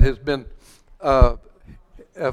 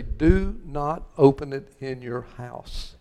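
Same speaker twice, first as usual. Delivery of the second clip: slow, chuckling through the warning; laughing warning; 4 semitones lower, 5 dB quieter, slower than usual. Retold or imitated. Pastor laughing as he warns the congregation. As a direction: laugh while passing on the warning. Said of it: "They say".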